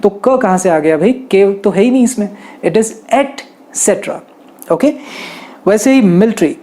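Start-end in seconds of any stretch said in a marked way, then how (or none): 2.7-4.2 etcetera said slowly as et-SET-ra, no k sound; correct pronunciation. Shown as a demonstration. Teacher corrects the common ex-setra mistake, slowly. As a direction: etcetera drawn out, each syllable clear. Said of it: "कई लोग इसमें एक्सेट्रा कहते हैं".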